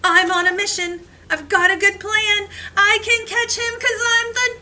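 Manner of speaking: high, loud rallying cry, stretched on Gingerbread; heroic shout. Acted. Gingerbread boy races to the classroom to catch the elf, loud and high.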